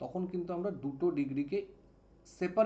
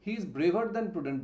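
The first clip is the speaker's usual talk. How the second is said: slow read; much slower than usual. Shown as a demonstration. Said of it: "আমি যদি বলি".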